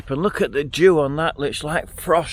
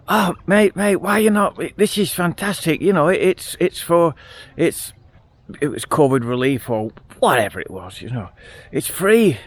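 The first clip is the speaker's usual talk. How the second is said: higher, pushier imitation of the scammer; a hint of a slick con man, raised pitch; mock eager scammer; 4 semitones higher than usual. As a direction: play the hacker lightly, keen to sell the link. Retold scammer pushing free money.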